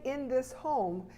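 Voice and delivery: slow, weighty "in this home" with falling tune on "home"; stress on in this home. Shown as a demonstration. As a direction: lean slowly on every word of "in this home". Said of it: "And to say".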